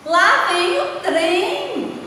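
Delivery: high, drawn-out exclamation; exclamatory reading. Shown as a demonstration. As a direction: call out the train's arrival slowly. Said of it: "observaram aí na entonação que eu dei".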